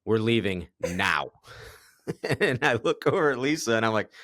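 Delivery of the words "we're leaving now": slow, dead-set quote of her leaving; a tired friend announcing the exit, slow and firm; flat firm announcement. Retold or imitated. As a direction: say it like the decision is final. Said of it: "look at me and go".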